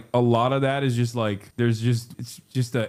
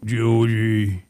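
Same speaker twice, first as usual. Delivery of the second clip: put-on British accent; 4 dB louder than usual. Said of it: "like, a British accent".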